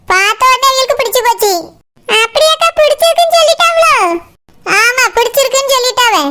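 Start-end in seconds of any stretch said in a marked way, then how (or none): 2.1-3.9 higher, surprised question. Acted. Pathrali hears the bride's family liked Surya, surprised. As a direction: ask with bright surprise.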